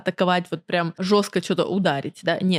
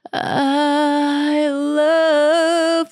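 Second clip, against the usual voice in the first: thickened chest; 6 semitones higher, 4 dB louder than usual. Shown as a demonstration. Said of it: "утолщила".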